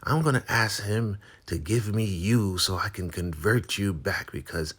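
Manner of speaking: very high, loud taunting voice; gloating Marva. Retold or imitated. Marva taunting Lacey, high and gloating. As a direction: sneer at her rival. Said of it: "She's like".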